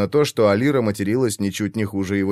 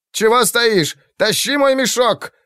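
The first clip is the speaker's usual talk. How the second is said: high, sharp shouted command; shouted order; 11 semitones higher than usual. A narrator's reading. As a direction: snap the order at him. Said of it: "крикнул он ошарашенному витязю".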